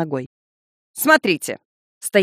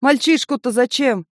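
high cry from the crowd; called out; 7 semitones higher than usual. Acted. An onlooker calling out to the executioner, higher. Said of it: "выкрикнул".

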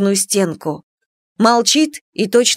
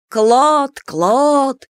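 sepulchral growl; 4 semitones higher than usual. A narrator's reading. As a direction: growl it like from the grave. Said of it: "загробным голосом прорычала она". (замогильное рычание)

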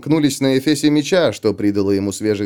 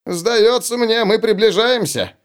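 raised, slow, odd voice; high slow character voice; 10 semitones higher than usual. Acted. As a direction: play Ulli high and drawn out. Ulli speaks in the story.

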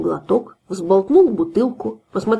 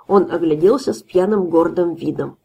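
ordinary delivery, nothing marked

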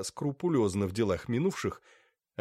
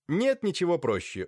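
smiling; 8 semitones higher than usual. A narrator's reading. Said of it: "улыбнулась Софья Лукинишна".

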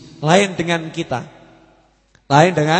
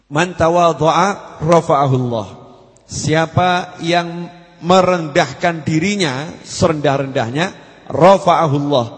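hadith recitation; slower than usual. Acted.

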